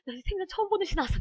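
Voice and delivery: gasp, then fast high-pitched dismay; hammed-up flustered exam panic, rushed and high; mock panic. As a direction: act out a test-taker panicking at an unknown poem. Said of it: "내가 다 공부해 놓은 거 보면서".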